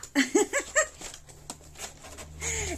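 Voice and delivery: high giggling laugh; real delighted laugh, high and drawn out; bursting laugh. Real, not acted. Speaker laughs at the gift.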